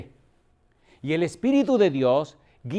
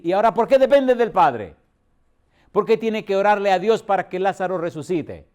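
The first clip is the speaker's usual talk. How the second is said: louder and higher, pressing the question; fervent rhetorical demand; rising preacher's challenge; 4 semitones higher, 5 dB louder than usual. Real, not acted. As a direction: push the congregation with it.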